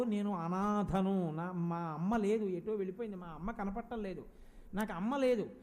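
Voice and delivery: low, slowed lament of a lost child, lightly voiced; a hint of a motherless child's plaint; retold tearful child. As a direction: mildly imitate a forlorn little boy. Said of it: "ఎందుకు ఏడుస్తాడు?".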